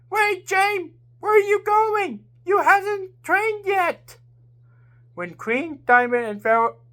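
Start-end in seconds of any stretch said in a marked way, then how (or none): 0.1-4.2 shout. A narrator's reading. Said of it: "and woman shout".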